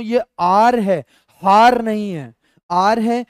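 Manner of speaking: आर said with a silent h, like "our"; teacher stressing आर, not हार; correct pronunciation. Shown as a demonstration. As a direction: say आर with no h at the start. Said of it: "इसका जो उच्चारण है दोस्तों".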